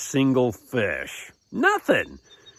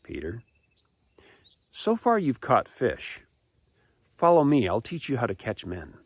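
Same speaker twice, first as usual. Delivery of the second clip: calm reassurance. Acted. Jesus answering a distraught Peter, calm measured call. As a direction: settle down after the agitation, measured.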